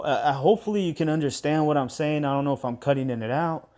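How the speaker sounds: slightly shaky, nervous voice. Real, not acted. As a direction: voice trembling a little. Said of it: "My voice is shaking".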